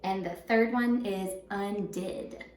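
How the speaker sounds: And the third one is undid read slowly; slow teacher dictation. Shown as a demonstration. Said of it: "dictation paper".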